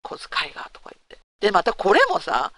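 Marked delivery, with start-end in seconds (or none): 0.1-0.7 a stingy man complaining to himself; muttered complaint. Retold or imitated. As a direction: whisper it under your breath, grumbling. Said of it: "舌打ちして". (小声のぼやき)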